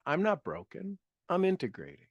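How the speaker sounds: a soft private affirmation. Shown as a demonstration. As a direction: say it again gently to yourself. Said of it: "Just say that".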